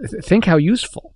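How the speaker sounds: hissed. Acted. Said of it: "he hissed in reply".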